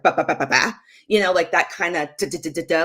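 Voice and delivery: staccato nonsense syllables; short and abrupt. Retold or imitated. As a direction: imitate a curt rhythm in syllables. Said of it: "like, sh-, a little short".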